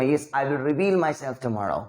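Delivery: deliberate, slow model line; slow showcase of the right wording; slow demo sentence. Shown as a demonstration. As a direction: set the better phrasing out slowly. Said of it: "नहीं बोलना".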